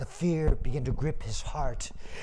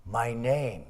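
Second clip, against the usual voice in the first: sorrowful ox; 3 semitones lower than usual. Acted. Ox answers his master sorrowfully.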